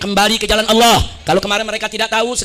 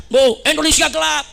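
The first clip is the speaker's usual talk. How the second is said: higher-pitched mock protest cry; imitated student shout; 4 semitones higher than usual. Students protesting to the government, imitated shout. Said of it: "Mahasiswa teriak".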